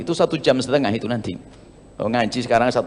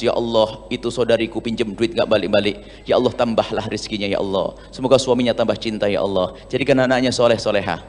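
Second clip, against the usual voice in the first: tearful night prayer; 5 semitones lower, 4 dB quieter than usual. Pretend. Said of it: "di malam hari menangis".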